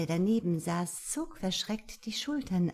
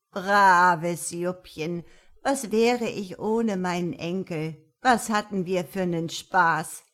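put-on fond old woman; 7 dB louder than usual. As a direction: praise him lovingly. Granny praises grandson.

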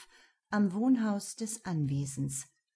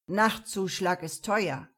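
sly goat man voice; 4 dB louder than usual. Acted. Sly mechanic character.

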